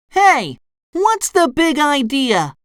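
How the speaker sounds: high, indignant cartoon voice; SpongeBob crying out. A narrator's reading. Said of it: "SpongeBob cried".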